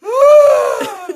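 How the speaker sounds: very high, loud shriek; aunt's shriek. Retold or imitated. Hysterical aunt screams as the boy crawls off again, shrill scream. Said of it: "Dá um grito".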